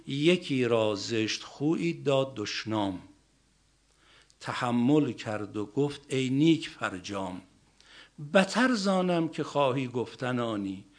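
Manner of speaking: measured, rhythmic verse delivery; poem recitation. Acted.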